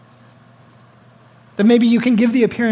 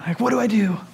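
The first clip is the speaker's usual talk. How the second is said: a lost whisper to yourself; breathless whispered worry. Acted. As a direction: whisper it, unsure. Voicing a lost person's question.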